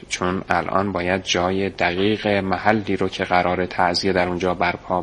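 unhurried and level-headed; calm. Acted. Hamid calmly explains to the boy, composed. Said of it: "با خونسردی جواب داد".

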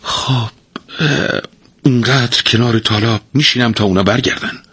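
naively. Acted. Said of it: "با سادگی گفت".

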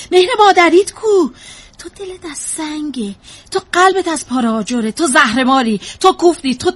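loud, accusing outburst; bitter reproach. Acted. Mother parrots others' reproaches to her therapist, bitter and accusing. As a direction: fling each accusation out harder.

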